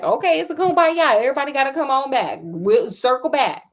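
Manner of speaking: sarcastic aside. Real, not acted. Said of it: "sarcastic commentary on story".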